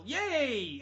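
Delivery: a loud, fairly high yay; mock shout. Explaining Busey's advice with a loud mock yay. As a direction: yell it to cheer yourself up. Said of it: "at the top of your lungs".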